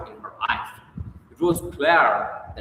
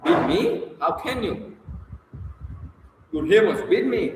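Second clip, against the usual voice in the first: much higher, a cry of disbelief on me; outraged disbelief; 8 semitones higher, faster than usual. A narrator's reading. Sonia protesting to Raskolnikov, shocked high cry. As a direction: fling the question back in shock.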